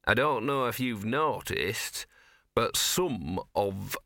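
slow, lightly voiced talking dog; a hint of a streetwise mongrel; gruff dog voice. Gaspode the dog speaks.

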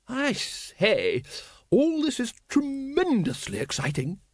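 very high, hooting upper-class lady; thrilled lady. A narrator's reading. Lady Ramkin delighted by the dangerous outing, high excited lady voice. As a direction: gush with excitement.

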